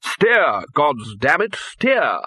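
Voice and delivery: loud, high, urgent command; yelled order. Acted. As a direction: bark at the pilot to steer. Wizard yelling at bursar.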